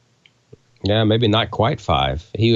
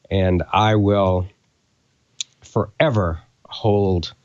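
holding back tears as he thanks them; choked up. Real, not acted. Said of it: "'cause Don just made us cry".

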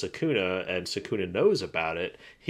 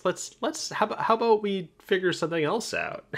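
high-pitched nervous president; 11 semitones higher than usual. Retold or imitated. President urging calm, voiced high.

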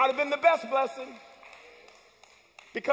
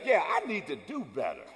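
lower, softer sheepish reply; sheepish agreement; 8 semitones lower, 5 dB quieter than usual. Retold or imitated. Sinner meekly agreeing with the inner voice. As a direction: admit it grudgingly. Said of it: "and then you say".

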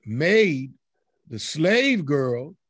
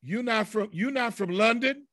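higher-pitched, doubting question; mock challenge; 4 semitones higher, 3 dB quieter than usual. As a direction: challenge them with rising disbelief. Acts out Peter's challenger.

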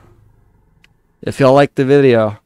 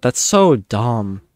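disgusted; much slower than usual. Real, not acted. Annoyed at the game.

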